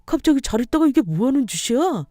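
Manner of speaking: lightly acted husband, startled and indignant; shocked husband. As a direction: react in disbelief at a sudden slap.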